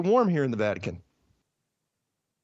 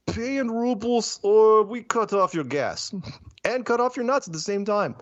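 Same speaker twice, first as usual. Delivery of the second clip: Putin's ultimatum; 6 semitones higher than usual. Retold or imitated. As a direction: deliver it like a smug ultimatum. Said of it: "Putin tells Europe".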